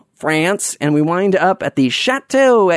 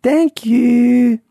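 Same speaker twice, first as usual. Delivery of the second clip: higher, silly put-on thank-you; audio guide voice; 7 semitones higher than usual. Tour guide thanking the listener, silly put-on voice. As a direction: do a made-up tour-guide voice, pitched up. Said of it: "do some sort of voice".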